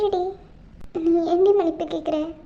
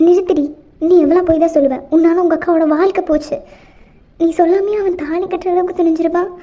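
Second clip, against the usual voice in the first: mother yelling at the daughter she blames; furious scolding; 2 semitones lower, 5 dB louder than usual. Acted. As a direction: shout her down, no more lies.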